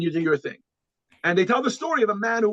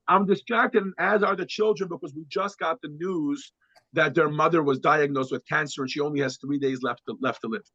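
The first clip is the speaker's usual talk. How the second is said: father explaining his wife's diagnosis, lower and hushed; grieving father; 5 semitones lower than usual. Retold or imitated. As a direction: let it fall to a hush. Father tells sad news.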